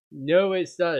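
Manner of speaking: angry shout. A narrator's reading. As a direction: shout it back in anger. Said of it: "I shouted angrily".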